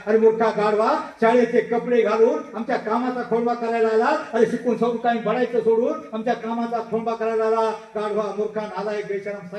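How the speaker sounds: an official cursing the schoolboy; angry abuse. Retold or imitated. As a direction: scold the boy with contempt. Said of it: "सगळ्या शिव्या देऊन".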